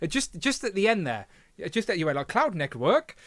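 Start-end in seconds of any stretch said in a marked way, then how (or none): 2.3-3.1 a light posh English lilt on the name; imitating a viewer's posh slip, lightly; mock posh accent. Host mimics a viewer's slipping accent, lightly posh. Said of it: "Uh, very posh, very posh".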